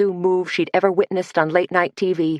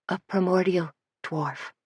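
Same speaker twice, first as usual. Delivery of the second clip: murmured; 2 semitones higher, 7 dB quieter than usual. Acted. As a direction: murmur it almost to herself. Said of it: "murmured Lydia".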